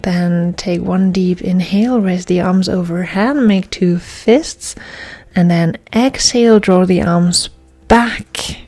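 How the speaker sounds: measured, paused yoga-class cueing; guided yoga instruction. Real, not acted. Yoga teacher guiding class through breaths, calm measured instruction. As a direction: cue each breath and movement, leaving space.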